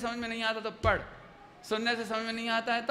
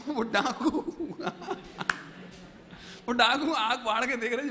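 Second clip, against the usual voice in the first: laughing. Real, not acted. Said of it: "laughing at the story".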